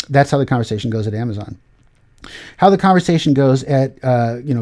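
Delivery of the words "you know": ordinary delivery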